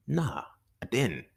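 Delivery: slow breathy whisper. Retold or imitated. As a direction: whisper the answer slowly. Whispered answer.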